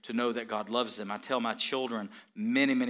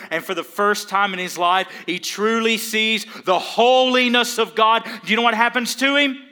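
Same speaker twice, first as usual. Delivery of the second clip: higher, louder sermon climax; preaching at full force; 11 semitones higher, 13 dB louder than usual. Acted. Pastor to congregation about Isaiah seeing God's holiness, preaching at full force. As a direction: drive the question home, shouting.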